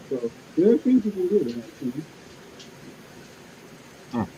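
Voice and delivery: sounds like talking underwater; muffled as if submerged. Real, not acted. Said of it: "You sound like you're underwater".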